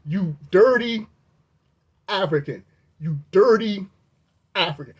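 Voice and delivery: mild mock yell with pauses between words. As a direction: bite out each insult with pauses. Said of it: "He's yelling".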